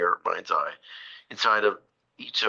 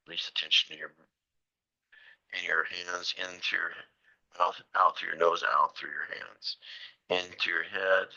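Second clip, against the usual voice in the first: guided relaxation. Shown as a demonstration. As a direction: lead the breath gently, phrase by phrase. Leads a body relaxation.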